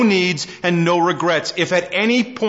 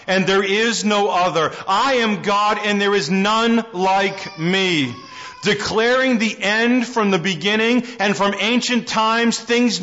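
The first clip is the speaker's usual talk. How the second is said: raised, measured reading of scripture. Acted. Preacher reads Isaiah aloud to the congregation, proclaiming.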